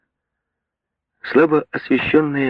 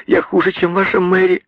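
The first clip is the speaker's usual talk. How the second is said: much higher and louder, frantic; hysterical pleading; 13 semitones higher, 4 dB louder than usual. A narrator's reading. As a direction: cry out the confession in hysterics. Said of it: "твердила она в истерике".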